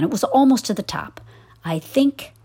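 put-on storytelling voice for children; story narration. A narrator's reading. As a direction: read it like a bedtime story. Reads a story aloud.

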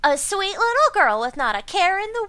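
a hint of a breathy ditzy hypnotist; bimbo voice. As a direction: coo it like a sweet airhead hypnotist. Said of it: "I'm totally doing a bimbo voice".

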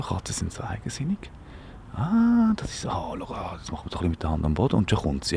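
soft unvoiced whisper, close and hushed; whispering to a cat. Real, not acted. Host whispering to a stray cat on air, hushed. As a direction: coax the kitten in a hush.

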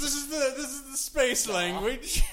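high, slow space alien. Pretend. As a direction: greet them like an alien. Joins the space alien bit.

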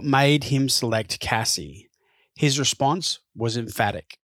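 measured, scripted podcast narrator read; documentary narration. A narrator's reading. Presenter introducing the selector to listeners, measured scripted narration. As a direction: narrate the story clearly, line by line.

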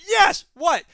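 high, loud yelp of delight, then baffled; mock cheer then confusion; excited yelp. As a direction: jump at it, then puzzle. Excited reaction to quote.

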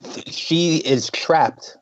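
strained, choking while talking; choking on a nut. Real, not acted. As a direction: talk through choking on a nut. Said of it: "I'm choking on a nut".

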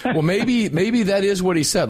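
high, bright and playful; excited. Real, not acted. Excited joking reply.

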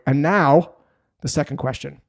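ordinary talk

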